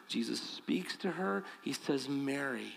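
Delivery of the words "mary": a soft, hushed, loving "Mary."; tender calling of her name. Retold or imitated. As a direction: breathe "Mary." gently, like a friend who knows her. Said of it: "said only as he could say it".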